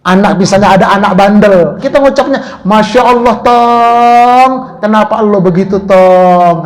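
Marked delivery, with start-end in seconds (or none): 2.6-6.6 put-on mild exasperated scolding of a naughty kid; tut-tut at a stubborn child, masya Allah clipped and sharp. Shown as a demonstration. Preacher scolding a naughty kid, mildly exasperated. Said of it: "itu masya Allah, tapi tekanannya beda".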